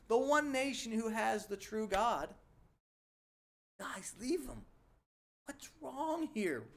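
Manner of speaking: angry then baffled, a wounded parent; incensed disbelief. Retold or imitated. The Lord ranting at Israel, incensed then bewildered. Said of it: "he's incensed and in disbelief".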